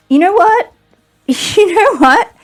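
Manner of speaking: high, emphatic build-up; worked-up rhetorical question; excited. Real, not acted. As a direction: wind up for the accusation. Building up to an accusation.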